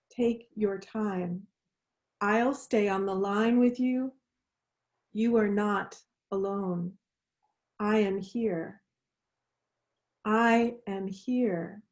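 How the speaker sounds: gently steady someone who is breaking down; tender reassurance. Acted. Friend crying on the phone.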